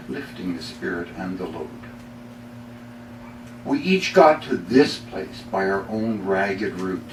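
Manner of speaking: poem reading. Acted. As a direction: read it as a sincere, weighty poem. Reads poem The Fellow Traveler.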